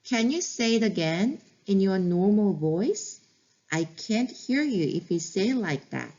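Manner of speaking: calm, stretched words, like a teacher repeating for practice; slow practice repeat. Shown as a demonstration. Teacher repeating the phrase for practice, very slow. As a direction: say it again slowly so learners can copy. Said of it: "다시 한번 연습해 볼게요".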